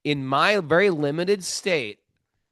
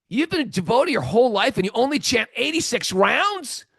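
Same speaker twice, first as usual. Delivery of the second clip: louder, higher, challenging the number; bold confrontation; 9 semitones higher, 6 dB louder than usual. Retold or imitated. Devotee confronting the thirteen-year-old about his rounds, bold and loud. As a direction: confront him like he's slacking. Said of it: "a bold confrontational way".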